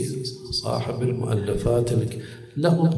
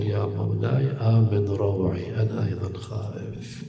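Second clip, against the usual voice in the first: softer, lower plea to the imam; hushed plea; 3 semitones lower, 5 dB quieter than usual. Acted. Pilgrim to the imam at the shrine, hushed plea. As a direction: murmur it like a frightened pilgrim.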